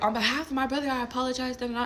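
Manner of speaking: lightly acted angry apology; retold yelled apology. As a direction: imitate apologizing in the middle of an argument. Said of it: "we're yelling and apologizing".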